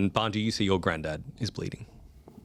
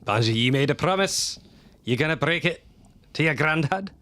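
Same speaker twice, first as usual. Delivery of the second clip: gentle scolding granddad; 6 semitones higher than usual. Acted. Granddad reminds Banji of promise.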